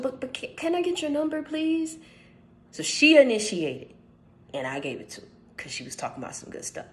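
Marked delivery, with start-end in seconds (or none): 0.0-2.0 imitating her. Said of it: "she said".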